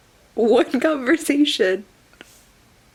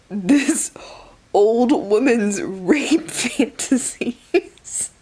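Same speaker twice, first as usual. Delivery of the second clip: disgusted whisper; slower than usual. Real, not acted. Disgusted aside.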